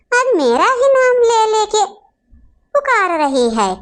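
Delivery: whimpering fake sob on the words; hammed-up tearful complaint; mock crying. Mother-in-law complaining to her son, mock crying.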